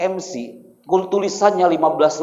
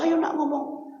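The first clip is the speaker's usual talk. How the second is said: high, softer coaxing father; father urging; 11 semitones higher, 6 dB quieter, slower than usual. Acted. Father urges crying son to speak on stage, high and hushed. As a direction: urge the child on in a small high voice. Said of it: "Akhirnya Bapak".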